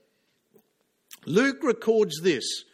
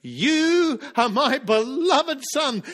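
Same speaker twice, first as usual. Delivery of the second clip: voice from heaven; 4 semitones higher, 4 dB louder, slower than usual. Acted. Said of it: "a voice came from heaven".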